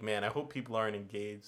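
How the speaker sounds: low, soft inner aside; quieting down. Retold or imitated. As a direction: let the voice sink, losing interest. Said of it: "kind of quiet yourself down".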